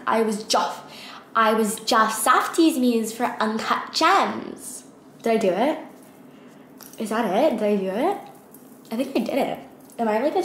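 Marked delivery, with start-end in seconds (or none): 0.1-4.8 slow, drawn-out British-accented imitation of a quote. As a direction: stretch the imitated line out, accidentally British. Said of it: "why am I saying it in a British accent?".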